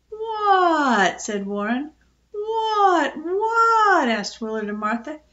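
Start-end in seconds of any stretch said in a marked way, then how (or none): 0.1-1.2 loud, high, drawn-out squawk; squawking gander. A narrator's reading. Geese squawk their question. 2.3-4.1 high, loud echoing squawks; squawking ducks. A narrator's reading. Ducks echo the gander's question.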